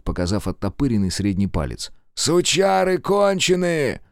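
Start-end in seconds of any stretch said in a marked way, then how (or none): 2.1-4.0 angry cursing. Acted. Wounded thug curses back.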